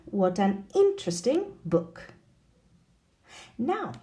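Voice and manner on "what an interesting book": "What an interesting book" with IN of interesting exaggerated; exaggerated stress. Shown as a demonstration. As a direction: lean on the first syllable of interesting. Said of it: "even more exaggerated in an exclamation".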